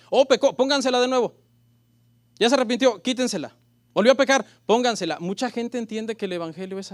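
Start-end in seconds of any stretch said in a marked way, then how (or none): 0.1-5.2 a mocking God, louder, tossing out orders; lightly mock a fickle judge calling out; mock God flipping. Preacher mocks a fickle God, louder and sarcastic.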